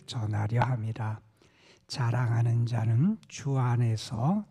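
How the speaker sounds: solemn recitation closing on amen; scripture reading. Acted. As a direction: read the verse out firmly, phrase by phrase. Reads scripture aloud.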